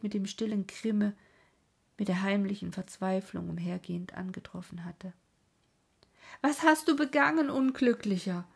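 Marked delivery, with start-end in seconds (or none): 6.4-8.5 high, loud outcry, falling on the last word; anguished cry. A narrator's reading. Werther confronts the captured farmhand, crying out loudly. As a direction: call out in horrified reproach. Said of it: "rief Werther aus".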